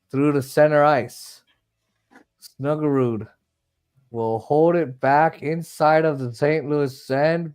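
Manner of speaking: steady running hockey commentary; radio-style hockey play-by-play; live hockey play-by-play. Acted. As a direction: call the puck's movement as it happens.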